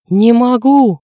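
Dronго yelling in nervous breakdown. A narrator's reading. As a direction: scream it at the ceiling. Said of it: "заорал он".

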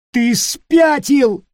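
high, loud, slow yell; shouted outrage. Acted. Nick yelling at Peter, high and loud. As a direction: yell it after him. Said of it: "заорал Ник".

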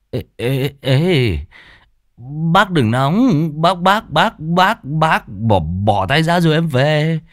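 high, stammering, panicked begging; frightened pleading. Acted. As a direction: beg with a terrified stammer. Drunk begs while being grabbed.

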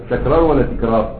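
تكرار first with a fatha as tekrar, then with a kasra as tikrar; fatha versus kasra. Shown as a demonstration. Teacher asks students which vowel is right, tekrar or tikrar. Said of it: "وهي تكرار بالفتح ولا بالكسر".

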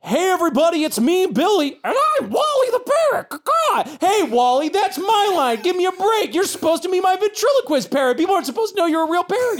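high, cartoonish ventriloquist act voice; hammy comedian. GM voicing comedian Billy's act, high and hammy. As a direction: play a desperate stand-up hamming it up. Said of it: "clearly rehearsing a stand-up comedy bit with his parrot".

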